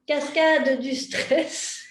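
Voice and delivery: slow, spelled-out term; slow emphatic term. Shown as a demonstration. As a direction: lay out the key term slowly. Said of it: "voilà, la cascade". (terme clé posé lentement, très lentement)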